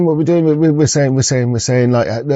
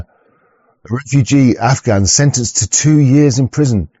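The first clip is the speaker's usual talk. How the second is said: reading headline; slower than usual. Real, not acted. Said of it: "I should read the headlines".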